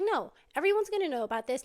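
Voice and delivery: mock defiant vow; determined. Wife, shamed by betrayal, vows to expose them loudly.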